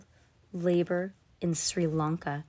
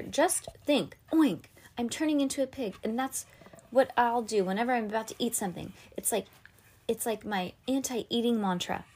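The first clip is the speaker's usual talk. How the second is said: put-on high girl voice; 4 semitones higher than usual. Twin explains oink mantra.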